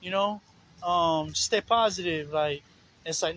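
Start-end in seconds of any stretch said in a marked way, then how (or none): 0.0-2.3 lightly voiced carefree churchgoer; mock positive talk. Mocking the shallow believers, a carefree airy voice. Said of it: "stuff they say".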